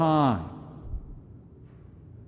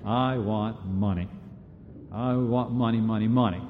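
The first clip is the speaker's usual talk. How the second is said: mock greedy thinking; 3 semitones lower, 6 dB quieter than usual. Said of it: "we're thinking about".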